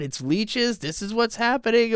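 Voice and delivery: high, incredulous crowd asking in alarm; shocked disbelief. Retold or imitated. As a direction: pitch jumps way up in disbelief.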